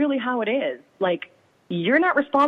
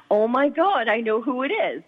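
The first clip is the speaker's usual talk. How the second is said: excited text; 5 semitones higher than usual. Retold or imitated. Friend texts with the news.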